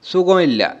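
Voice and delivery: "সুগম ইল্লা" run together with a falling lilt; Malayalam intonation. Shown as a demonstration. Teacher warning of a different tune, Malayalam intonation on "সুগম ইল্লা". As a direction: join "সুগম ইল্লা" in one falling sweep. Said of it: "একটা অন্যরকম টান চলে আসবে".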